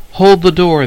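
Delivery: loud yell. Acted. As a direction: bellow it out. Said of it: "the old man was yelling".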